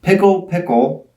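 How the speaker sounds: chanting the magic word; magic word incantation. Acted. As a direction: intone it like a spell. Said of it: "I say the magic word".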